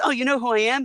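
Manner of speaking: high-pitched pop star impersonation; high, surprised mock-celebrity question. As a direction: imitate the star's high voice. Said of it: "the pop star goes".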